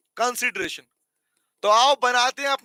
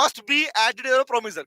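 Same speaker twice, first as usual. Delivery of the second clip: slow dictation; much slower than usual. Shown as a demonstration. Teacher dictating notes to students, slow and clear. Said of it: "क्या होगा?".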